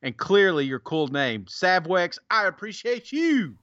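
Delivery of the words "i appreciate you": catchphrase flourish. Real, not acted. Same catchphrase to next reviewer.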